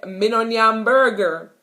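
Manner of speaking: "Me no nyam burger" in patois; plain Jamaican patois refusal. Shown as a demonstration. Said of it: "you say".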